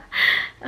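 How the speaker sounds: short voiceless nervous laugh; awkward laugh. Retold or imitated. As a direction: imitate an uneasy puff of laughter. Retold awkward reaction to advance.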